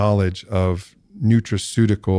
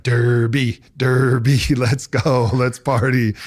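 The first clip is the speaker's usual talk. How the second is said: louder, laughing hype chant; party-hungry old self; 4 semitones higher, 3 dB louder, slower than usual. Retold or imitated. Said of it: "which old me would have been like".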